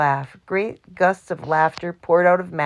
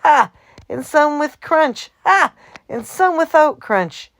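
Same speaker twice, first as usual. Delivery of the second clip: laughing; 10 semitones higher, 7 dB louder than usual. A narrator's reading. Mac laughing roll call.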